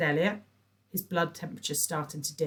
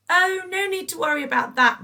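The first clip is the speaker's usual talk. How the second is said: gushing; 11 dB louder than usual. A narrator's reading. Patricia gushing.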